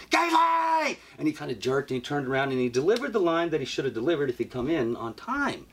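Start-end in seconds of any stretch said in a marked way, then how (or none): 0.1-1.0 loud, high call of a name; sharp call. Retold or imitated. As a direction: snap him out of it by name. Calling out to castmate in shock.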